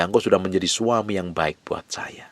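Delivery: soft, intimate whisper; whispered thanks. Shown as a demonstration. Preacher models thanking a spouse, whispered. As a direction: breathe the words to your husband.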